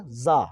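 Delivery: जा as za, long and buzzing; slow za for जा, not ja; z sound demonstration. Shown as a demonstration. Teacher contrasting two letters, slow buzzing za for जा. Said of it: "ये जा है ना कि जा".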